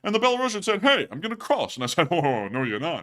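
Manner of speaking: lightly voiced gruff comic complainer; Rodney voice. Cohost riffing a joke about the border in a Rodney-style voice. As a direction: put on the put-upon comedian, griping. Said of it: "that Rodney voice".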